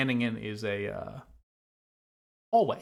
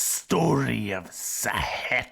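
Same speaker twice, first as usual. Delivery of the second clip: snake voice; 4 dB louder than usual. Acted. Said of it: "be doing the snake impression the whole time".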